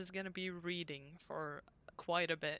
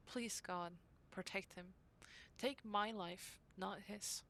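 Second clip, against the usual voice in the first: diary reading; 4 dB quieter than usual. Acted. Reads diary entry from game.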